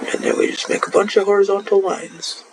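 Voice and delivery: muffled by a hand; talking through a hand; hand over mouth. Real, not acted. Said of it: "Oops, sorry, that was muffled".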